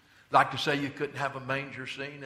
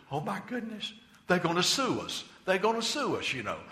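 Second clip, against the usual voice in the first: mock panic; 5 semitones higher than usual. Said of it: "got afraid".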